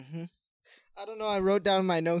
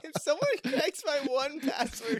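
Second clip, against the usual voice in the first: higher, slow panicked cry; half-laughing alarm at the thought; mock panic; 9 semitones higher than usual. Real, not acted. Panicking about password.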